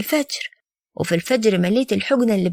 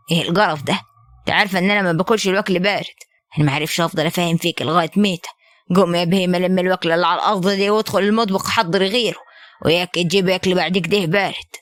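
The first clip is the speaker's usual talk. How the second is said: lower, harsh scolding of the wife; angry husband; 3 semitones lower than usual. Acted. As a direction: scold her like a bullying husband. Husband berating wife over cold food. (زوج غاضب يوبخ زوجته بصوت أخفض)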